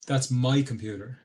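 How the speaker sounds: "my" emphasised against the rest of the sentence; stress on MY. Shown as a demonstration. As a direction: lean on "my" to claim the computer. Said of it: "in English you emphasize the word".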